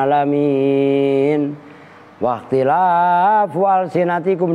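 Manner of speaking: slow, drawn-out chanted recitation; Quran recitation. Acted. Preacher reciting Surah Ar-Rum. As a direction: recite it slowly like tilawah.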